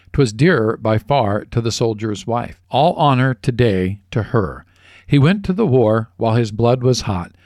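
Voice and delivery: measured memorial poem reading; poem recitation. Acted.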